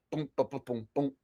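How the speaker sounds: beatbox booms. Acted. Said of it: "without the music".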